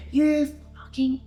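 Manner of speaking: verbal attack. Retold or imitated. Man turning on a stranger in the street, verbally attacking. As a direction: rip into him, drawing the words out. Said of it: "he's ripping verbally".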